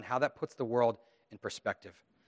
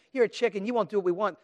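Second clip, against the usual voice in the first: mocking taunt; 7 semitones higher, 3 dB louder, faster than usual. Bullies taunting a child.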